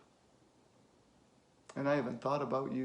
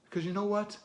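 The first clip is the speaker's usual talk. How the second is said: higher, emphatic, insistent; forceful challenge; 4 semitones higher, 5 dB louder than usual. Acted. Challenging a guarded kid to talk, forceful and insistent. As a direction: press hard, punching the key words.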